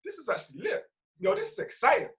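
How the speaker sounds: lifted, lightly hyped pep talk to yourself; upbeat self-talk. Shown as a demonstration. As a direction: talk yourself into finding it exciting. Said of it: "just tell yourself".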